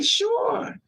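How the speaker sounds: put-on very high-pitched little kid voice; eager child. Child answering a stranger's offer of candy, eager high voice. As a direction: chirp it high, imitating a child.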